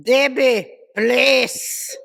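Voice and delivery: slow, loud pleading in a put-on Arab accent; mock Arab accent. Boyfriend begging upstairs at night, mock Arab accent. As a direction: imitate an Arab boyfriend, drawing out each word. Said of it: "with that Arab boyfriend".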